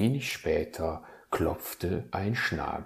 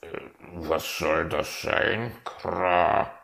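confused raven; slower than usual. Acted. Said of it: "wirkte verwirrt".

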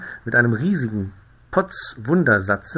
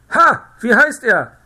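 much higher and louder sudden yell; shouting; 13 semitones higher, 9 dB louder than usual. A narrator's reading. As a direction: bellow at the stranger. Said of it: "schrie mich an". (lauter Anschrei)

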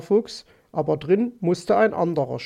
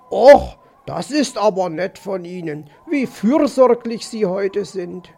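a touch of effusive politeness; lightly voiced grateful fox; 4 dB louder than usual. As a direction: gush mildly as a courteous fox. (leicht überschwänglich dankbarer Fuchs)

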